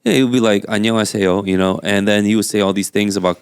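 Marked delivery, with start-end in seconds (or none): 0.6-1.4 put-on Korean greeting in an English accent. Imitating an older golfer greeting Koreans, English accent. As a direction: say the Korean with English-speaker vowels. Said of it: "saying that right now in an English accent".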